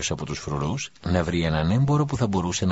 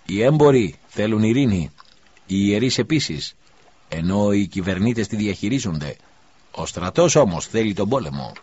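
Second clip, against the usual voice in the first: crowd member shouting; 3 semitones higher, 5 dB louder than usual. Acted. Someone in the crowd shouts at the governor, loud. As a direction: call it out over the crowd. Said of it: "Κάποιος από το πλήθος φώναξε".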